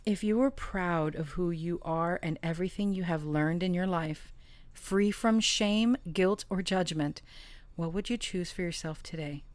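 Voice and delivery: measured read-aloud with weighted key words; oracle card reading. Real, not acted. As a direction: read it out as a message to the listener.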